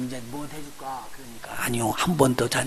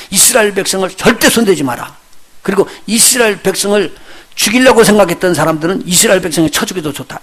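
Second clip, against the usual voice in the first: royal decree read aloud; 4 semitones higher, 5 dB louder than usual. Retold or imitated. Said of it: "이렇게 이야기해요".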